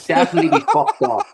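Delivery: laughing through the words; can't keep a straight face while swearing; half laughing jibe; laughing insult. Real, not acted.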